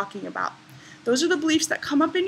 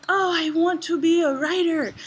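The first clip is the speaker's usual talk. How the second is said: imitated Greek woman, slightly higher voice; rough Greek accent; 5 semitones higher, 3 dB louder than usual. Greek woman meeting a writer, eager, rough Greek accent. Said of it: "I'm not doing the best accent".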